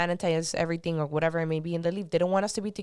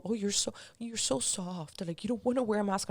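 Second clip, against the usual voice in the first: mocking whiny quote; 3 semitones higher, 5 dB quieter than usual. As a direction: mimic a preachy critic with scorn. Mocking critics of him.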